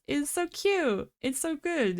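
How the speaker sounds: eating while talking; talking through crunchy bites; mouth full. Real, not acted. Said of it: "You can hear me crunching it in my mic".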